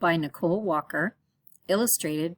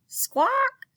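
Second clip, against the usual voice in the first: very high, loud parrot screech; loud parrot squawk; 3 dB louder than usual. Acted.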